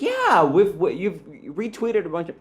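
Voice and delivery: high, eager retelling of a reply; acted-out excitement, starting high and easing off; super excited. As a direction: gush it like a thrilled fan. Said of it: "that's me being super excited".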